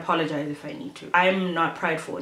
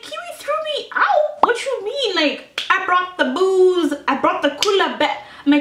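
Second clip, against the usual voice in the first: squeaky high shocked voice; shocked disbelief; 12 semitones higher, 4 dB louder than usual. Retold or imitated. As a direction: shriek it in disbelief. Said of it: "And I'm like".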